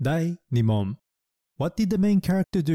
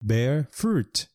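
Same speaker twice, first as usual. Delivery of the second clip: slow model phrase. Shown as a demonstration. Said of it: "例えば".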